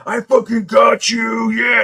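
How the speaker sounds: loud, high victory yell; triumphant dwarf shout. Acted. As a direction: roar it at a beaten rival. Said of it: "and the dwarf's like".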